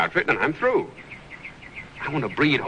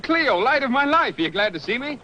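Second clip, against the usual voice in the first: English accent; 9 semitones higher than usual. Shown as a demonstration. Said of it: "Say that again".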